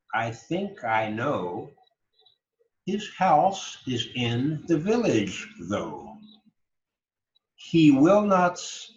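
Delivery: slow, deliberate poem recitation; reciting a poem. Shown as a demonstration. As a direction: lead a class in reading verse aloud, line by line. Leads class reciting poem aloud.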